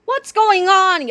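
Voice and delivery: loud, slow bully demand; yell. A narrator's reading. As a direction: bark the question. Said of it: "yelled Kipper".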